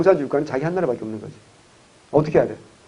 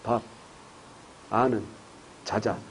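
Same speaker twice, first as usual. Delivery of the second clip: mock Gyeongsang man; 8 semitones lower, 16 dB quieter, slower than usual. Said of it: "경상도 남자는 딱 세 마디 한다".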